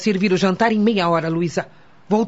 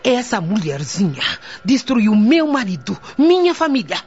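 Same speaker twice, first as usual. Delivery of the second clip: bitter rage. Acted. Widow snapping at the old witch, bitter rage building. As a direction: hiss the insult, then let the hurt burst out.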